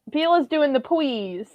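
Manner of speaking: put-on slow, high baby talk. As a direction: plead like a little baby. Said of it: "pulling out the baby voice".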